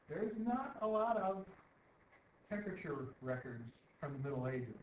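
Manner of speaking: deadpan understatement; sarcastic. Real, not acted. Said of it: "I'm being sarcastic".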